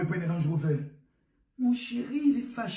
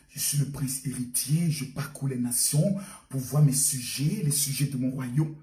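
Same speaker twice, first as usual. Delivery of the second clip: much lower, grand voice of a self-styled crown prince; boastful prince; 10 semitones lower than usual. Acted. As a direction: play the prince bragging to the neighbour. Prince voice again.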